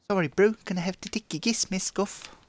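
put-on playful Kiwi accent while looting a body; New Zealander accent. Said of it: "New Zealander accent".

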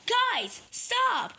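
high, urgent pretend warning; high-pitched shouted plea; alarmed shout. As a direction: cry out to halt the chase. Warns the running toys.

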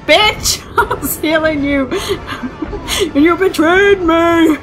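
half-laughing, hammed-up wounded voice; mock heartbroken companion, laughing; laughing mock betrayal. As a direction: giggle through a fake hurt complaint. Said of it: "Rook's just like".

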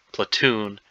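"Platoon" with the weight on "-toon", first syllable light; stress on second syllable. Shown as a demonstration. Crossword solver explaining the iamb, stressing "Platoon" on "-toon". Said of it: "the second syllable is stressed".

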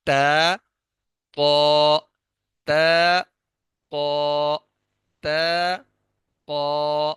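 تا light and thin, قو full and heavy from the back; contrasting letter sounds. Shown as a demonstration. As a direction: alternate تا and قو, the first thin, the second thick. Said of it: "ٹھیک ہو گیا؟".

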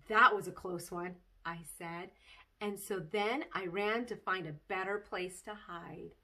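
put-on lively read-aloud of a kid's chapter book; bouncy child-narrator storytelling; story reading. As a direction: tell it like a bedtime story to children. Reads Junie B. story aloud.

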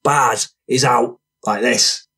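rowdy storyteller. Acted. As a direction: spin a violent tale with drawn-out relish. Voices Franny telling his street tale.

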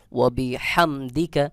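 হাম with h pressed from mid-throat. Shown as a demonstration. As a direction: push lightly from the middle throat on হাম. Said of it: "গলার মধ্যখান থেকে একটু চাপ". (হাম গলার মধ্যখান থেকে চাপ দিয়ে)

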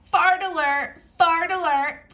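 high, loud parrot squawk. Acted. Parrot raising the alarm about Walter, loud high squawk. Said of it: "squawked the parrot".

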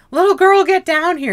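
put-on park ranger yelling at the boy in the tree, loud and high; bossy park ranger. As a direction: yell up at the kid in a shrill put-on ranger voice. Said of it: "she's like".

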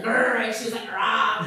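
short growled grr and rah; playful mock snarl; mock angry growl. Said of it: "her face was like".

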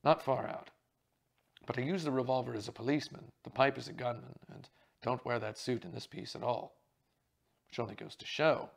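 loud hearty theatrical actor; jovial actor voice. Acted. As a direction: play the booming stage actor. The speaker's voice held.

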